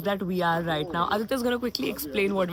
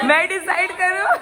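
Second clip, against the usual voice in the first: excited shout; 11 semitones higher, 6 dB louder, much faster than usual. Real, not acted. Playful group vote, shouting.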